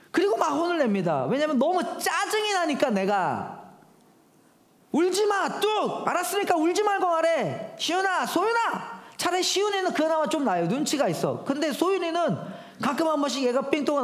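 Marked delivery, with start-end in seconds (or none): 4.9-9.0 angry dad scolding. Retold or imitated. Dad scolding crying daughters.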